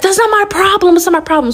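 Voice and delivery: high-pitched mock dismissal; dismissive mother. Mother to hurt daughter, imitated dismissive retort. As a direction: imitate a mom brushing off complaints.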